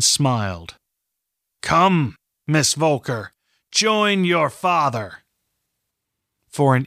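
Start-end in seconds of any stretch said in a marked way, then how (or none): 1.6-5.2 higher, drawn-out mocking summons; taunting invitation. Master Edling beckons Katrin to her captive father, taunting. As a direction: beckon with smug, unhurried menace. Villain smilingly summons the heroine.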